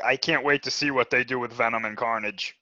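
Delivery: understated mock anticipation; sarcastic. Real, not acted. Co-host doubting the Venom and Carnage movie, sarcastic. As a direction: feign eagerness with dry sarcasm. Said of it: "I'm being sarcastic".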